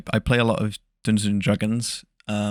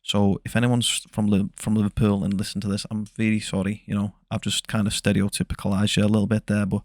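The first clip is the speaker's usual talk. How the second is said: Liverpudlian accent. Shown as a demonstration. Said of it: "it would sound a bit like this".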